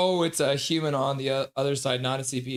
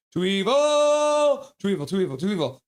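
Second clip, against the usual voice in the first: stretched-out howl of outrage; mock outrage; 6 semitones higher, 5 dB louder than usual. Real, not acted. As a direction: wail it in playful disbelief. Reacting to game, drawn out.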